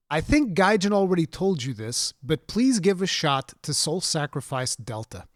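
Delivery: reading a viewer question aloud. Shown as a demonstration. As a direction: read the message out with rising amusement. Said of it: "I have to read it word by word to you".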